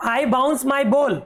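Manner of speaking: very slow, word by word reading; slow, clear teacher reading; slow read-aloud. Shown as a demonstration. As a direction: spell the line out slowly for kids. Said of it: "teacher reading line slowly".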